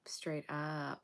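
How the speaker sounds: hushed whisper, dead serious. Real, not acted. Reader warning the viewer, urgent whisper. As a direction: breathe it as a warning.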